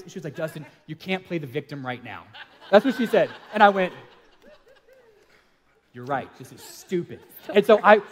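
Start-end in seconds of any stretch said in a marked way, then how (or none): 0.3-2.2 softer, matter-of-fact put-down; imitated reproof. Wife's retold answer to mock victim. 5.9-7.2 low, soft admission of defeat; deflated mock surrender; sheepish concession. Retold sheepish giving in after quarrel.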